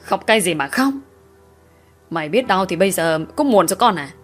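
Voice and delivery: rising rage. Acted. Father raging about the daughter's lover, building anger. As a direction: let the fury build to the end.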